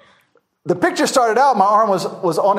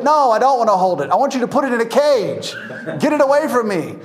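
higher, firm no with a laugh; alarmed refusal; 4 semitones higher than usual. Retold or imitated. Tourist refusing the snake handler, alarmed. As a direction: push the snake away with your voice.

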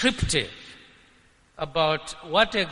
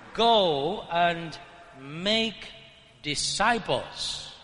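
"make disciples" set apart by pauses and slowed; stress on "make disciples"; 3 semitones lower, much slower than usual. Shown as a demonstration. Preacher moving emphasis off go, stressing "make disciples". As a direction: pause before "make", then give "disciples" slowly. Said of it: "more important emphasis must be placed".

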